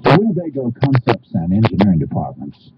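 polished sales pitch voice; upbeat RV commercial narration; ad read. Acted. Reads Winnebago ad copy.

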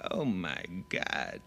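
slow, lightly voiced Heston line; a hint of dramatic Heston; Charlton Heston. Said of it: "teaches people how to say his favorite line".

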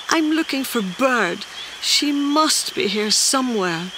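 high-pitched little creature voice; worried small creature. Acted. Small Creature tells Squirrel who is missing, high worried voice.

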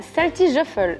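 «Salty Shuffle» lentement, avec l'accent français; prononciation anglaise approximative. Real, not acted. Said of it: "c'est pas comme ça que ça se prononce". («Salty Shuffle» prononcé à la française, lentement)

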